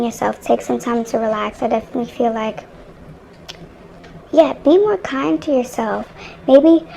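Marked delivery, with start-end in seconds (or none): 4.3-6.9 slow words stretched by a yawn. Real, not acted. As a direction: talk through a yawn. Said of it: "I yawned".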